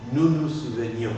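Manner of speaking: souvenions as "sou-ve-nions"; mute E pronounced. Shown as a demonstration. Teacher models souvenions for student to repeat, E articulated. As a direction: keep the E before -nions in souvenions. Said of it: "j'articule le E muet".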